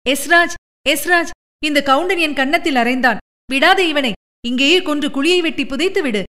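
high, frantic shout for help; woman shouting. Acted. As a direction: yell at Esraj to kill him. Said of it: "என்று குமாரி பங்கஜா கத்தினாள்".

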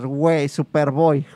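slow, drawn-out fresa voice. Retold or imitated. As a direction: say it like a stuck-up fresa kid. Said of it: "sobre todo con ese tono de fresa".

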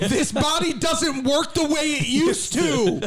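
put-on slow, high creaky old man. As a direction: groan it like a worn-out old man. Aging player complaining.

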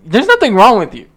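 laughing. Real, not acted. Laughing rant about a face.

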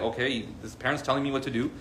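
low, soft, calmly compliant; composed, hushed acceptance; unpanicked child. Retold or imitated. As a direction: imitate a child quietly going along. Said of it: "the child's not panicking".

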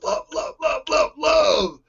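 high, breathy rush of loves; gushing. Real, not acted. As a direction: swoon over each word. Gushing over the backstory.

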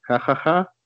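flat, mock ha-ha-ha; fake sarcastic laugh. Host mocking his co-host's joke with a fake laugh. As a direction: laugh on purpose to show it wasn't funny.

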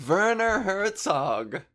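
high, slow triumphant announcement; finally remembering, call it out; triumphant recall. Real, not acted. Host finally recalling a director's name, triumphant.

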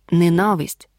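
"Ненависть" stressed on НА, the second syllable. Shown as a demonstration. Teacher showing learners where the stress falls, "Ненависть" stressed on second syllable. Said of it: "Наголос падає на другий склад".

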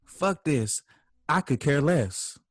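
dismissive arguer. Acted. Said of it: "and you say".

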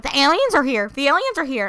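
loud, high doomsday warning; doomsayer shout. Retold or imitated. Street doomsayer warning passersby, loud alarmed shout. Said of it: "the people who are like".

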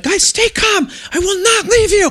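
put-on father shouting reassurance to his kids; yelling over wind. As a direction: call it up high over the storm.

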